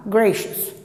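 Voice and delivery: "Gracious" with a very weak schwa before the final S; weak final sound. Shown as a demonstration. Teacher showing the faint little ending sound in "Gracious". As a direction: let the end of "Gracious" shrink, keeping the S. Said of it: "faz esse sonzinho bem fraco".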